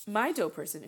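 words broken by a burp; talking through a water burp. Real, not acted. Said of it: "that was like a water burp".

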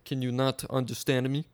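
questioning in a put-on Russian accent. Russia challenged on his speech, Russian accent. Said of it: "This is authentic Russian accent".

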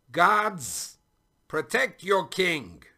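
loud, high royal yell; yelled command. A narrator's reading. King calls his guards to protect him, yelling. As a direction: shout it out as an urgent order. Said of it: "yelled the king".

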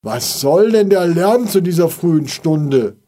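loud, annoyed call from the window. A narrator's reading. Father calling down from the window, annoyed. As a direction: call down, irritated at the noise. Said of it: "öffnete darauf das Fenster und rief".

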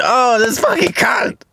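furious shout; outraged shout. Acted. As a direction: blow up at her rudeness. Outraged reaction to post.

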